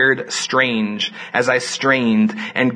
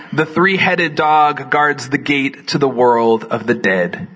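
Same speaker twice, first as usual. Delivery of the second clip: poetry reading. Acted. Reads sonnet aloud.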